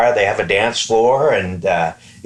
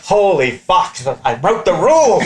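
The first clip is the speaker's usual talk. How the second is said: panicked thought; 9 semitones higher than usual. Retold or imitated. Panicked inner thought, rising pitch.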